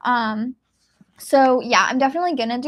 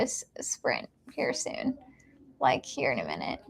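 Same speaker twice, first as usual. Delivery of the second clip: whisper; 9 dB quieter than usual. Real, not acted. Streamer whispering to viewers while friends are nearby. Friends arrived, people around.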